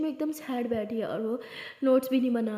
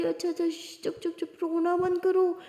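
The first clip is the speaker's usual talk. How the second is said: higher-pitched hushing; soothing shush; 6 semitones higher than usual. Acted. Friend comforting a crying classmate, soothing shush. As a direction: shush a sobbing friend with quick, repeated little words.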